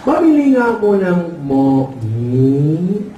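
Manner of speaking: mock impeded speech, long trailing last word; cleft-palate speech imitation. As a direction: drag the words out with muffled consonants. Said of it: "Sabi ng ngongo".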